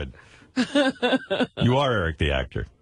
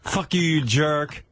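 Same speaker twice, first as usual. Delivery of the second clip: slow, higher mock-angry insult; vicious attack; 4 semitones higher, slower than usual. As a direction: draw out the insult as an irate fan. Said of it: "the fans viciously start attacking Eric".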